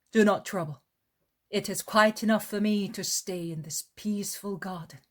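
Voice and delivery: a kindly teacher asking politely; Jesus voiced. Jesus declines.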